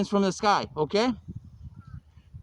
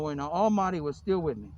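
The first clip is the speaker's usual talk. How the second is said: lower, understated quote; subdued recital; 5 semitones lower, 3 dB quieter than usual. Acted. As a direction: recite it low, without the grand delivery. Same quote recited in passing.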